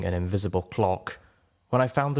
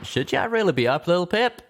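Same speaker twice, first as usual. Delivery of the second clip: concerned Calamity; 10 semitones higher than usual. Acted. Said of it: "his eyes widening with concern".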